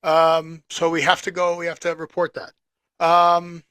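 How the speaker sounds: thin tinny sound with no bass. Real, not acted. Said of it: "why you sound so tinny tonight".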